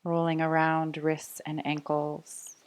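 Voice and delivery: calm, even voice leading small movements; guided meditation. Real, not acted. Yoga teacher waking fingers and toes, calm guided meditation. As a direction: ease them gently out of stillness.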